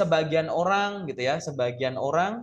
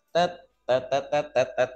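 separate, spaced-out syllables dropping in pitch; suddenly slowed down; 3 semitones lower than usual. Shown as a demonstration. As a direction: let the syllables plod one by one. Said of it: "terus tiba-tiba".

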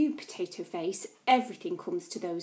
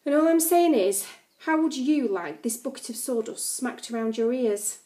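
threatening; 4 dB louder than usual. Acted. January threatens narrator.

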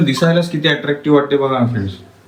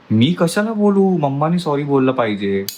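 put-on higher, whiny childish protest; sulky refusal; 4 semitones higher than usual. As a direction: refuse to say sorry like a pouting kid. (रुसून हट्टाने नकार)

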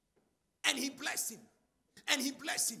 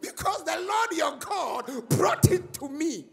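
laughing through it; 4 semitones higher, 12 dB louder, slower than usual. Acted. Preacher acting Jacob's answer.

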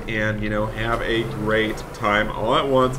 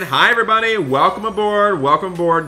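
loud, high, cheery welcome aboard; bright loud driver hello; friendly bus driver greeting; 5 semitones higher, 4 dB louder than usual. Pretend. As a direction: greet kids climbing onto the bus. Greeting students boarding the bus.

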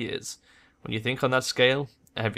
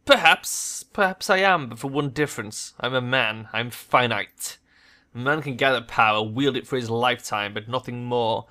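emphatic, swelling oratory; doctor lectures the shadowrunner on mortality; grand villain monologue. Acted. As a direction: proclaim man's finitude like a sermon.

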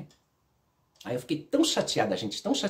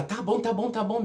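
higher-pitched imitation of a giving-in mother; conceding mother; 9 semitones higher than usual. Mother accepting her daughter's refusal, imitated concession. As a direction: imitate a mother hurriedly letting it drop. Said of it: "Aí ela".

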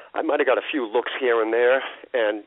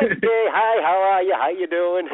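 high, louder, babbled hello; mock nervous greeting; 8 semitones higher, 4 dB louder, slower than usual. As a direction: act out flustered, high-pitched greetings. Retold awkward greeting to his idol.

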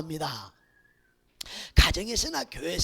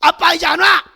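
louder, higher storming-out shout; angry shout; 6 semitones higher, 11 dB louder than usual. Retold or imitated. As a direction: yell it as you walk out on your dad. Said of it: "이러 나가는 거야".

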